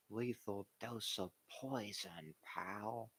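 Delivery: lightly voiced slow old owner; Jerry Jones impression. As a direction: drag it out like a folksy team owner. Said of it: "This is Jerry's version of a good".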